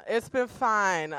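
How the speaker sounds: slowly drawn out, resigned. Shown as a demonstration. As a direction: stretch it out, slowly and unconvinced.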